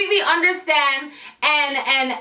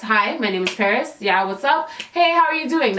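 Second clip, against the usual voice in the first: real-life voice; 2 semitones lower than usual. Shown as a demonstration. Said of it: "this is how I talk in real life".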